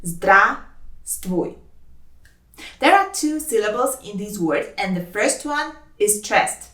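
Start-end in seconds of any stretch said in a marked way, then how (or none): 0.0-1.6 slow, split into «Здра-ствуй»; syllable by syllable. Shown as a demonstration. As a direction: say «Здравствуй» in two slow, separate syllables. Teacher breaks word into syllables.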